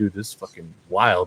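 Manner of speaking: play-acted, panicked, freaked-out outburst. Retelling being awake during a procedure, feeling the incision: retelling own panicked words. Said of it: "I'm just panicking".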